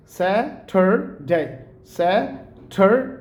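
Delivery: "Saturday" as slow "SA-THUR-DAY"; three drawn-out beats on "Saturday"; American Saturday. Shown as a demonstration. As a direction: puff of air on the t in "Saturday". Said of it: "टी का हमने बोला था ठा की sound देंगे".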